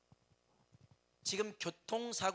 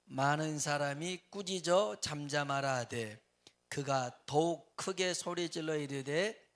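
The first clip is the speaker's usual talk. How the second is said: scripture reading; 3 semitones lower, 3 dB louder than usual. Real, not acted.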